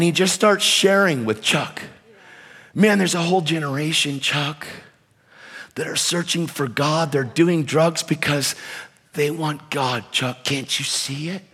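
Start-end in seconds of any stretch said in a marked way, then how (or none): 2.7-11.4 hushed, slightly lowered pleading; earnest appeal. Retold or imitated. Hippie sharing with the pastor about a searching generation, softly earnest. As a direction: softly make the case to a sceptical man.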